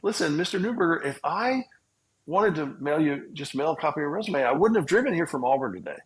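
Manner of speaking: bold comeback. Retold or imitated. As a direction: push back hard, voice up and urgent. Pleading his case to interviewer.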